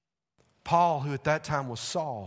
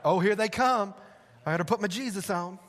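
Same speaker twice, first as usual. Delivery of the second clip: a hint of a fake-pious voice; mock churchy greeting; 4 semitones higher, 4 dB louder than usual. Preacher mimicking Christians who put on Jesus, lightly fake-pious. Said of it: "That's not what I'm talking about".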